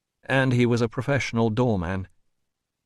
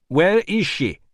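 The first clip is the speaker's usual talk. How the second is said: high, loud interruption; insistent demand; 8 semitones higher, 5 dB louder than usual. A narrator's reading. Doctor interrupting the administrator, high loud demand. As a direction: cut in and demand an answer.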